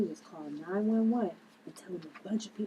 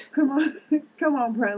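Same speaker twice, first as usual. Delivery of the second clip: exasperated shout; 6 semitones higher, 9 dB louder than usual. Acted. Liv shooing the guy off.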